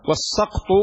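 "السقط" said as as-saqt; fatha on the sin. Shown as a demonstration. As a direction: open "a" after the s in "السقط". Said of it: "بفتح السين".

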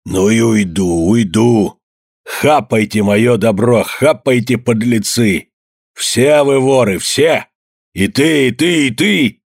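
put-on jab out each word at the old men; furious shouting. A narrator's reading. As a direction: Evdokim shouting that they are all thieves. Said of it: "Вдруг закричал он".

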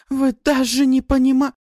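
breaks off mid word; cut off mid word. Acted. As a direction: stop abruptly mid word. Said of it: "прервалась на полуслове".

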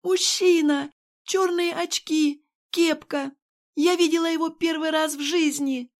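high, loud frantic outburst; panicked shout. A narrator's reading. Nurse to Kirill, high panicked shouting.

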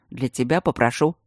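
ниже и ровно, серьёзно; пообещать весомо. A narrator's reading. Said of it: "серьёзно сказал Ситников". (Матвей серьёзно обещает Алине)

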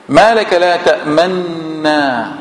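تأمنا said slowly with the nun merged and no vowel; slow careful recitation, تأمنا with a plain silent nun; read with sukun. Shown as a demonstration. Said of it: "سكون، ولا يوجد مبرر للسكون".

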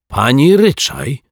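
high, loud, drawn-out exclamation; astonished cry. A narrator's reading. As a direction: cry out in amazement. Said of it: "krzyknął zdumiony". (okrzyk zdumienia)

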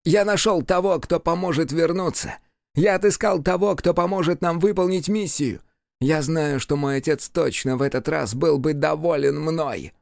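high, eager demon voice; demon, proud. A narrator's reading. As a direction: sure his father is pleased. Demon boasting.

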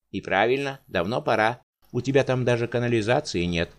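loud, indignant outburst. Acted. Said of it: "возмущённо всплеснул руками Водяник".

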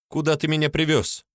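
put-on high squeak of a frightened girl; squeaky question. A narrator's reading. Polina squeaks at Mark, high and scared. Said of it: "пропищала Полина".

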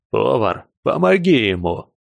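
лёгкий намёк на хриплый злой приказ; отдай приказ зло, с хрипотцой; злой хриплый голос. Acted. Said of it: "знакомый хриплый и злой голос Клока". (злой хриплый голос)

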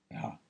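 ГА as a soft voiced h; латинский звук «га». Shown as a demonstration. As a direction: breathe out a quiet ГА with h, no hard g. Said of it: "Латинский звук га". (тихое «га» на придыхании)

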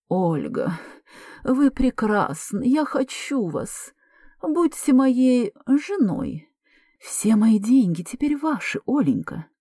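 high, slow swooning suitor voice; languid breathy whisper. Acted. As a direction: breathe it out like a lovesick man. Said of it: "озвучивая шёпотом с томным придыханием". (томный шёпот с придыханием)

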